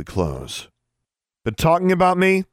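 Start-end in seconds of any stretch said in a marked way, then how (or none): 1.4-2.4 high, loud challenge down a hallway; angry shout. A narrator's reading. Alexandra calls out to whoever closed the door, shouting. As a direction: shout it out, pitched way up. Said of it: "she shouted".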